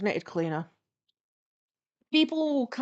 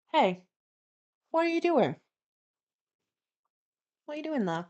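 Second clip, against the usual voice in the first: calm, careful questioning with long pauses; really calm; 6 semitones higher than usual. Retold or imitated. Approaching a flatmate misusing the dryer, really calmly. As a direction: ask it gently, in a higher voice. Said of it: "Really calmly".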